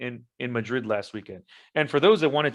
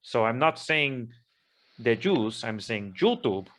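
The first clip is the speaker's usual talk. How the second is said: hammed-up Spanish accent. Speaking to YouTube in a lightly put-on Spanish accent. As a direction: play up a Spanish accent while clarifying, only lightly. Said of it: "I am going to use my Spanish accent".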